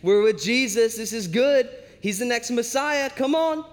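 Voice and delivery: hyped enthusiasm rising to an eager come-on; gung-ho follower cheering the team on; all about it. Acted. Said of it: "he's all about it".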